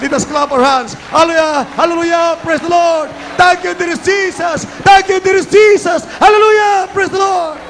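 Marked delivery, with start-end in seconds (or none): 1.2-7.6 high, fervent worship shout; rally the crowd with each cry; full-force revival preacher; shouted praise. Real, not acted.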